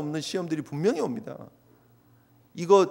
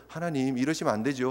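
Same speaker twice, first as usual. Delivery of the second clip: hushed, softer inward plea; inner prayer; 6 semitones lower, 6 dB quieter than usual. Retold or imitated. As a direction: pray it under your breath. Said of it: "속으로 막 기도하는 거예요". (속으로 조용히 드리는 기도)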